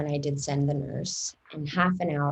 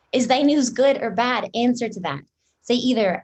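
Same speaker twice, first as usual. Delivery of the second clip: impatient demand; 5 semitones higher, 6 dB louder than usual. Acted. Juliet pressing for news.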